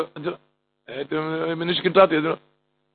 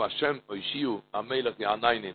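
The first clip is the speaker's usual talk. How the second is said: soft murmured prayer; 6 semitones lower, 13 dB quieter than usual. Acted. Prayer words repeated softly.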